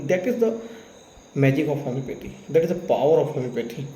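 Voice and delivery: slow, proud declaration; slow proud pitch for homeopathy; proud proclamation. Real, not acted. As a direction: announce it as a triumph. Proud proclamation closing case story.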